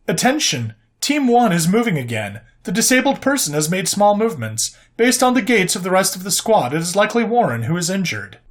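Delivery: lightly voiced ship computer; level, even machine announcement. Computer voice reads status.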